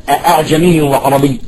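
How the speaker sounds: two separate glottal stops opening "أأعجمي"; two full hamzas. Shown as a demonstration. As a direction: say "أأعجمي" with both hamzas fully sounded. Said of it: "آ، آ، هي همزتين".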